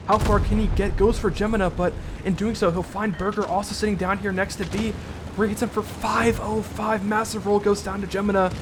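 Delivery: building hype as the tank runs for his life; excited play-by-play. Real, not acted. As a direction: ride the action and lift your voice.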